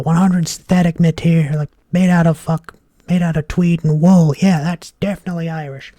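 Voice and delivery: loud, high-pitched caricature American; American accent. Acted. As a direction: put on a big, brash American tourist accent. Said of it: "let me try put on an American accent".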